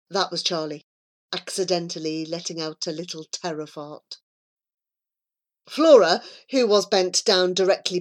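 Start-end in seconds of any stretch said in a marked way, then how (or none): 0.1-4.2 soft, low comic reveal; understated, murmured punchline; hushed aside. A narrator's reading. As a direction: confide the embarrassing detail quietly. Confiding comic reveal in the hush.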